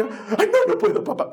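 very high squealing cry of refusal; hammed-up child. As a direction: overact the child's dramatic wail. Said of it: "se hace la que". (niña exagerando, chillido agudo)

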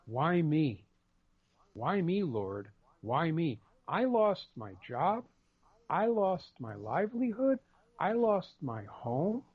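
mock whine rising at the end of each line; self-pitying whine. Man in a nursing home complaining to the Lord, whining. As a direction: whine it like a sorry-for-yourself patient. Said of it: "got so tired of me whining to her".

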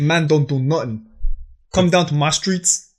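lightly mocked London roadman; a joking hint of roadman accent. Shown as a demonstration. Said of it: "you also have the roadman accent".

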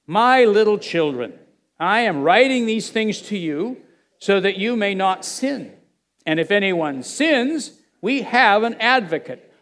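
slow, deliberate scripture reading; slow reading aloud. Real, not acted. Preacher leads listeners through First John, reading slowly aloud. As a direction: read it out slowly, phrase by phrase. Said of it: "Let's read it slowly and, and out loud".

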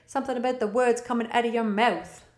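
a hint of a dramatic film delivery; quoting a half-remembered movie line, lightly acted; movie quote. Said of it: "Is that a movie?".

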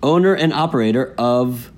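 measured, emphatic headline reading; news read. Acted. Co-host reading the day's fraud story, news read.

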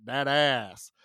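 loose Texan-Russian accent imitation; light mock Texan-Russian accent, drawn out; Peter Stormare. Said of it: "especially when he's like".

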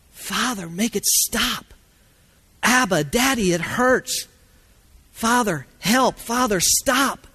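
put-on high, anguished plea, echoing the child; pleading prayer. Believers praying to God to stop the hurt, acted pleading. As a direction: cry out to the Father in short bursts.

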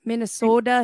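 "Minnesota" with a put-on local long O; Minnesota accent. Shown as a demonstration. Player warms up to show her Minnesota accent. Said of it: "my Minnesota accent".

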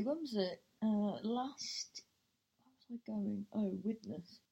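whispered recall to oneself; thinking aloud. Real, not acted. Storyteller trying to remember last week's trip, thinking aloud. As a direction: whisper it to yourself while searching your memory.

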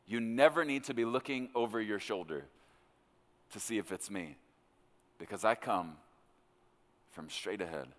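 softening and dropping low, with pauses; gentle reassurance. Retold or imitated. The Lord reassuring him he comes straight ahead, gently. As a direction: settle down into a quiet, steady promise.

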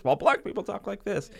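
high-pitched mock stand-up delivery at ordinary volume; lightly put-on comedian closing the contrast, pitched well up; stand-up comic punchline. Co-host finishes parody of comedy routine, mock stand-up voice. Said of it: "like a stand-up comedy routine".

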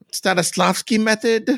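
hushed, breathy Stanislavski method?; whispered question. Retold or imitated. Mock interviewer whispering a question to Clark Kent. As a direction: slip in the question under the breath. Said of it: "George Lipton asking Clark Kent".

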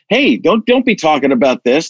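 normal talking voice

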